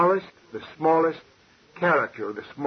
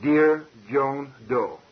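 slow dictation; much slower than usual. Shown as a demonstration. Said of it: "Like if you write a letter".

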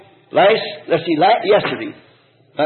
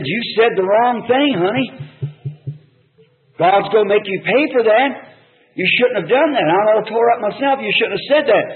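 higher-pitched, pained retold reproach; upset reproach; 5 semitones higher than usual. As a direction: reproach a loved one, all torn up. Retold upset scolding of his wife.

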